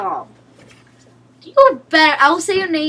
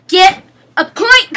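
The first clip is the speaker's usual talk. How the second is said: shouted; 5 semitones higher, 7 dB louder than usual. Real, not acted. Yelling at teammate.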